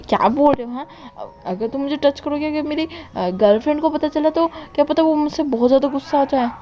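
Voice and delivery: a hint of nervous hesitation; flustered friend. Wangshi hesitates as Wing offers to touch her, mildly flustered.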